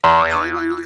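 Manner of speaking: loud amazed exclamation; surprised cry. Acted. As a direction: cry out in disbelief. Mother-in-law amazed by vow news. (हैरानी भरी ऊँची पुकार)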